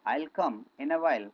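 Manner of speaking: "I'll come in a while" spaced out slowly, word by word; teacher drills the class, saying it slowly; slow model sentence. Shown as a demonstration. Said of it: "क्या बोलेंगे".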